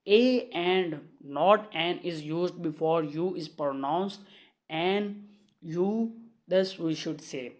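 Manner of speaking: very slow, word-by-word classroom reading; measured dictation of a grammar rule. Shown as a demonstration. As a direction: dictate the rule so students can write it down.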